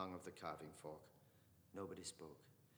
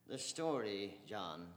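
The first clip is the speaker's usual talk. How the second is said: smiling; 7 dB louder, much slower than usual. Acted. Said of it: "said Mister Dedalus, smiling".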